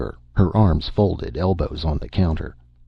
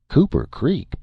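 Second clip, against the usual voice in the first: surprised echo; 11 semitones higher than usual. A narrator's reading. Bill surprised at the town.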